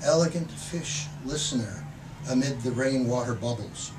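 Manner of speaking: measured, expressive poetry reading; poem reading. Acted. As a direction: read the poem like you're savouring each image. Poet reads the poem Adoption.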